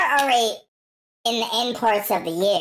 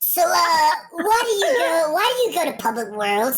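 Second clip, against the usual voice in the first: news reporter voice; 8 semitones higher than usual. Pretend. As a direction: play a cheesy street reporter. Mock news reporter interview.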